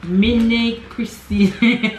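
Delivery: slow, hammed-up Italian accent on "Mini Crissini"; a playful attempt at an Italian accent, drawing out "Mini Crissini". Shown as a demonstration. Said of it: "Say that in Italian accent".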